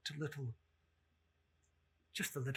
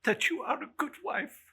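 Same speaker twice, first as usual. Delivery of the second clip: high, louder cheerful line; lightly raised; 10 semitones higher, 7 dB louder than usual. Acted. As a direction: deliver it brightly. Bob quoting nephew.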